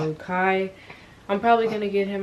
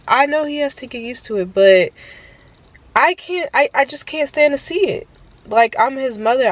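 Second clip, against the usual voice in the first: emotional, near tears; 6 semitones higher, 4 dB louder than usual. Real, not acted. Mom explaining to viewers why she's fetching her crying son, voice cracking high. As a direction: voice rising high and tight with upset. Mother upset baby crying.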